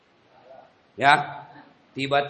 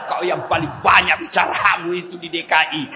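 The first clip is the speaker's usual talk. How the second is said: angry angel shout; 3 semitones higher, 3 dB louder than usual. Acted. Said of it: "Datang malaikat, dia sudah bawa godamnya".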